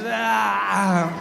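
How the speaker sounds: drawn-out mock groan of effort; exhausted groan. Worn-out wave tries to arrive, mock weary groan. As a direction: groan like a tired wave giving up.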